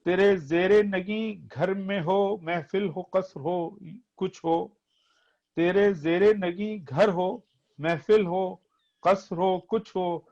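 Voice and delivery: poetry recitation. Acted. Reciting nazm verses.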